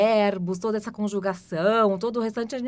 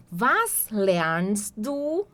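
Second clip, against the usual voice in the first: "Was trinkt sie?" drawn out very slowly; very slow demo; much slower than usual. Shown as a demonstration. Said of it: "teacher models question".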